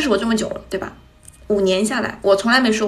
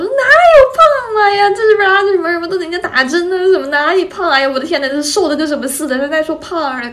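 high, loud mock telling-off; mom's comic scolding; 8 semitones higher, 6 dB louder, faster than usual. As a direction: imitate mom scolding in a funny, exasperated way. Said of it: "以那种搞笑的方式骂我". (模仿妈妈搞笑地数落人)

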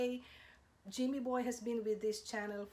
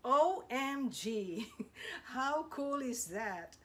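excited; 4 semitones higher, 4 dB louder, slower than usual. Real, not acted. Host thrilled by the face reveal.

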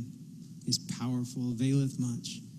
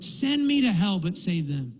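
impassioned plea. Retold or imitated. Preacher quoting Moses offering himself for his people, impassioned plea. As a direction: offer yourself up with force, then soften. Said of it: "But he literally said".

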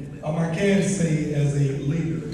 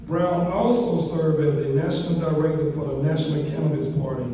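formal bio reading. Real, not acted. Reads out the honoree's biography.

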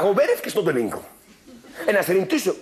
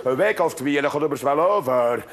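lower, calm grumbling man; gruff old carpenter; 6 semitones lower than usual. Acted. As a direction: shrug it off like a lazy carpenter. Jozef voiced low.

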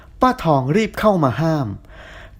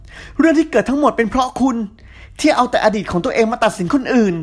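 heated arguing; 6 semitones higher than usual. A narrator's reading. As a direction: argue with your neck straining. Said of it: "เถียงคอเป็นเอ็น".

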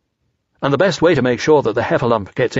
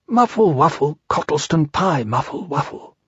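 indistinct murmuring; 3 semitones higher than usual. Acted. Pooh prompting the narrator unclearly, muffled fading murmur.

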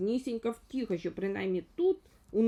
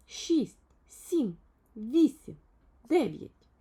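lightly voiced little fellow counting the rings, higher; 4 semitones higher, 9 dB louder, much slower than usual. A narrator's reading. Little man counts the phone rings aloud, lightly voiced. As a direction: count each ring out loud, a little higher. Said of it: "лічив Півчеревичок телефонні дзвінки".

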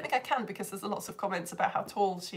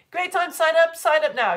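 higher and louder, a hammed-up sales pitch; mock advert voice; 6 semitones higher, 8 dB louder than usual. Shown as a demonstration. Teacher finishing her advert for students, in a hammed-up sales voice. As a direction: pitch it like a cheesy TV ad. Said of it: "that is the end of my advert".

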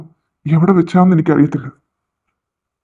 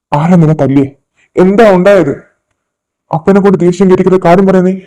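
firm, raised-voice interrogation; getting angry; 5 dB louder than usual. Acted. Father pressing his daughter for the truth, getting angry. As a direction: press for the truth with rising anger. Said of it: "ഇങ്ങനൊന്നും ദേഷ്യപ്പെടാതെ".

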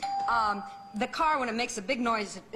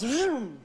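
imitated plane vroom. Shown as a demonstration.

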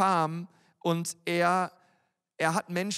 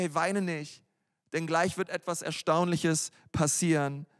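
gentle comfort; 3 semitones lower than usual. Retold or imitated. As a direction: comfort a grieving mother gently. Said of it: "sondern er sagt zu ihr".

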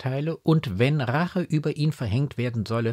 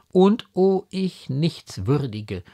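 slow, higher, louder lament; self-reproach; 5 semitones higher, 5 dB louder, slower than usual. A narrator's reading. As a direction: cry out against yourself, drawing it out. Mutter klagt sich kniend an. (reuevoll klagend)

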